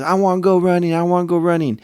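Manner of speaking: put-on high, pleading little kid; a small boy begging to come along; little son's voice. Son begging dad to come running, high and eager. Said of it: "and he goes".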